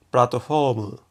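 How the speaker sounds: "platform" as puratto fōmu, with f; Japanese pronunciation. Shown as a demonstration. Teacher giving the computer loanword, Japanese pronunciation with f. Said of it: "la palabra en japonés".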